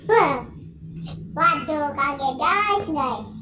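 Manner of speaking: loud startled yelp. Real, not acted. Gamer jolted by a scare in the game, loud startled yelp. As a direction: jump at the sudden fright.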